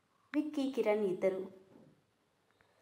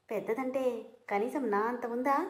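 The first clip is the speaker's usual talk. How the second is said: sarcastic question; 3 semitones higher than usual. Acted. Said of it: "అని వెటకారంగా అడిగాడు".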